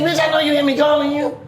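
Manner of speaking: half-laughing reprimand; scolding. Retold or imitated. Scolding her after calling.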